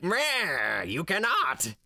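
high, booming ghostly lich voice; an unseen undead lord taunting the party; disembodied voice. Retold or imitated. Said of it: "disembodied voice being like".

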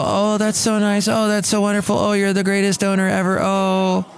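high, cooing mock admiration; hammed-up sing-song gushing; gushing onlookers. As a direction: imitate people fawning over a dog. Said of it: "And people go".

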